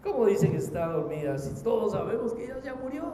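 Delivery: incredulous crowd scoffing, rising at the end; acted scoff, climbing into a questioning lilt; mocking disbelief. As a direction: challenge the claim in mock disbelief. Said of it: "Todos comenzaron a burlarse de Jesús".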